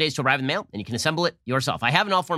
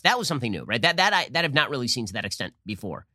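ordinary talk

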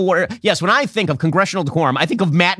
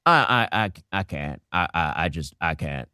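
Mitch McConnell; 11 semitones lower, 6 dB quieter than usual. Retold or imitated. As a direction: croak it out like a tired old senator. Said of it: "and he's like".

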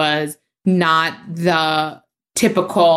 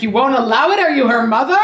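imitating mom; 6 semitones higher, faster than usual. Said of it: "And then my mom was like".

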